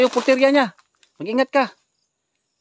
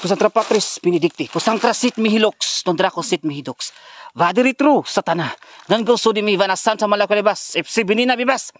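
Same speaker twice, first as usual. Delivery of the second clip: forceful, rhythmic Latin recitation; Latin exorcism prayer. Real, not acted. Ghost hunter commanding Satan to retreat, forceful exorcism prayer. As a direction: drive out the demon with a firm incantation.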